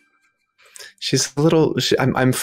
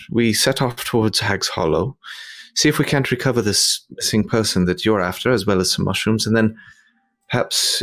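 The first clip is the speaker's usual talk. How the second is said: put-on posh English accent. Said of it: "rolling their eyes at my terrible accent".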